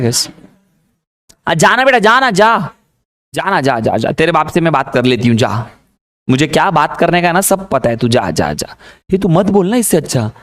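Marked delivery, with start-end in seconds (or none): 1.5-2.7 high, mock-sweet sarcastic mother; sing-song taunt as a sarcastic mom. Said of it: "माँ से बड़ी sarcastic औरत". 3.3-8.8 low, dismissive muttering mother; sarcastic mom. Retold or imitated. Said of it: "माँ से बड़ी sarcastic औरत".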